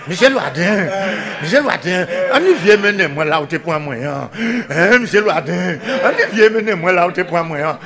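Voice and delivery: a pleading call through laughter; half-laughing plea. Acted. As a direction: beg Loaden while laughing. Character pleads to Loaden.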